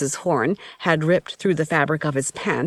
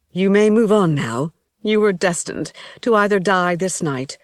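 a lightly raised, grave priestess voice; 2 semitones higher than usual. Acted. High Priestess speaks over body.

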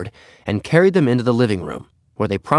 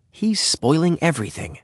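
higher, peevish inner complaint; cross; 7 semitones higher than usual. A narrator's reading. Henry thinks his dog ruins things, crossly. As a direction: complain crossly to yourself without raising volume. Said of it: "he thought crossly".

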